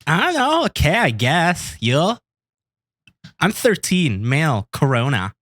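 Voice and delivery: put-on high, slow little boy voice; kid voice. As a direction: pitch up like a young teen boy. Playing the thirteen-year-old decoy.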